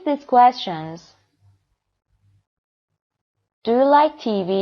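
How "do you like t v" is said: yes-no question climbing to "T V"; rising intonation. Shown as a demonstration. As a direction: lift the pitch towards "T V". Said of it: "rising intonation داشتن".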